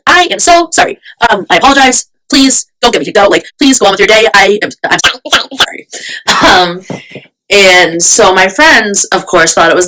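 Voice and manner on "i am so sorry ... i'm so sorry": higher, hurried mock pleading; flustered apology. Apologizing to the mother after tripping on the carriage, mock flustered. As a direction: imitate a panicked stream of apologies, pitched up.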